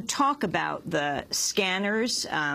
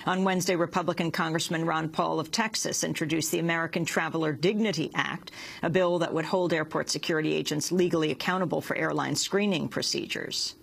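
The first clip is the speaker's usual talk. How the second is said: measured news anchor delivery; news read. Acted. Anchor reads the news script.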